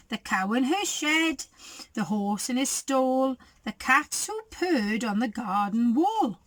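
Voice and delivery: lively storybook reading; reading to children. A narrator's reading. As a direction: read it like a bedtime picture book. Reads picture book aloud.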